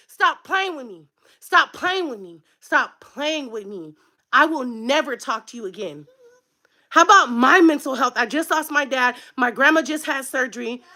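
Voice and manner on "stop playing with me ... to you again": quiet final warning. Real, not acted. Cutting off a relative after the rant, quiet warning. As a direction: voice dropping low and soft.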